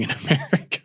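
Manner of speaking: breaking into a laugh mid-phrase; can't keep a straight face. Real, not acted. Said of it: "I can almost not say it with a straight face".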